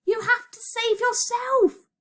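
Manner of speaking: slow, very high urgent plea; desperate scream. A narrator's reading. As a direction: plead desperately, high and drawn out. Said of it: "Virgo screamed again".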